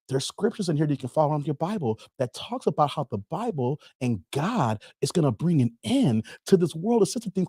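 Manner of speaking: lightly voiced scripture pitch; door-to-door preacher. Carl explaining scriptures to Dave, understated earnest preacher. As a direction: recite it earnestly, end by inviting agreement. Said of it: "I gave you the pitch".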